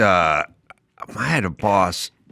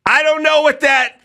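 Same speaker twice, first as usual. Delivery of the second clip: high, goofy dim voice; dopey confession; 13 semitones higher than usual. Retold or imitated. Worker admitting he never learned inch signs, high dopey voice. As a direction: play it like a clueless kid. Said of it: "And I'd go".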